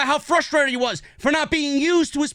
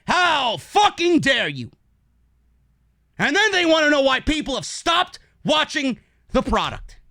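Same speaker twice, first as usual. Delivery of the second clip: furious shout; 2 semitones higher than usual. Real, not acted. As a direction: hurl it at them, fully enraged. Angry rant at WWE.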